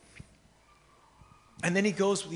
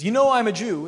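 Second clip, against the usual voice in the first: stating the obvious; 3 semitones higher, 7 dB louder than usual. Retold or imitated. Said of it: "sounds so stupid and so blatantly obvious".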